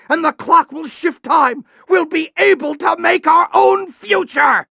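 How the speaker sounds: triumphant shout. Acted. General shouting that the clock will shift time. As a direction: cry out the victory ahead.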